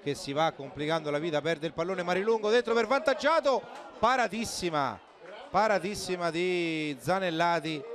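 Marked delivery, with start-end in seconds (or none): 2.0-7.8 excited commentary. Real, not acted. Big save in live commentary.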